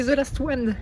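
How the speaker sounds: thick French accent on English; exaggerated French accent. Shown as a demonstration. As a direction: say it like a proud Frenchman. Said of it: "En accent bien français".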